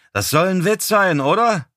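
high-pitched exclaimed question; calling out. A narrator's reading. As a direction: call it out in disbelief, pitched high. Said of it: "rief Stooks".

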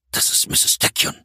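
hushed, unvoiced whisper. A narrator's reading. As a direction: whisper the name in dread. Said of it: "flüsterte er".

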